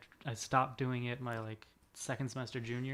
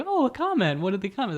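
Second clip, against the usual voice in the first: excited; 9 semitones higher, 11 dB louder than usual. Retold or imitated. Retelling excited reaction to comment.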